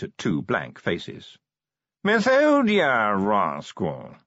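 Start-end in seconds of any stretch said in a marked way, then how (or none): 2.0-4.2 posh yawning voice. Acted. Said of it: "he tried".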